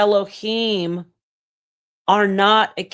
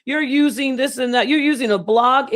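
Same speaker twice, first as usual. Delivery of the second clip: mocking critics; 4 semitones higher than usual. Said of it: "Don't let everybody tell you".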